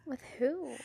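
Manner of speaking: hushed whisper, playfully scandalized; whispered mock jealousy. Mock jealousy about new friends.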